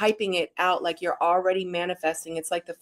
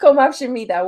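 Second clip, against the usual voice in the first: higher, louder laughing word; laughing repeat; 5 semitones higher, 8 dB louder than usual. Real, not acted. Wife laughing as she repeats the Korean word. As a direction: laugh it out proudly.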